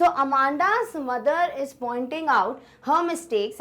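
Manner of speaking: slow dictation. Shown as a demonstration. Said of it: "apostrophe लग जाती है".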